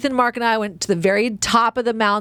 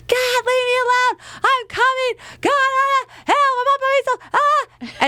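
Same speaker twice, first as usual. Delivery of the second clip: much higher exasperated wailing; mock frantic wail; 14 semitones higher than usual. Lost alone on the trail with the phone ringing, frantic high wail. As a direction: whine it out in panic.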